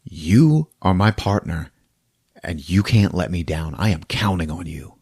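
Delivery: low, soft earnest appeal; levelling sincerely. Retold or imitated. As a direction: talk him round gently, man to man. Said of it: "the captain just levels with him".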